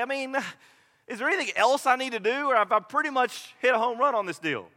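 smug, self-satisfied questions; self-righteous. Acted. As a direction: ask as if already sure of praise. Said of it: "such an air of self-righteousness".

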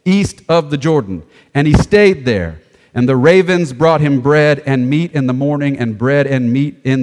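measured, projected Bible narration; scripture reading. Acted. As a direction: read the passage out clearly. Reads scripture aloud.

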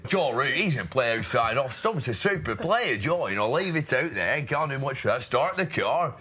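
a light take on the commentator; commentary voice, barely shifted; Bumble impression. Adult redoing David Lloyd's commentary, lightly voiced. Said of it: "There's your bumble".

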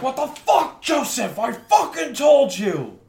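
high, full-voiced angry shout; furious I-told-you-so outburst; mad. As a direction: yell it right in his face. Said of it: "He's just mad".

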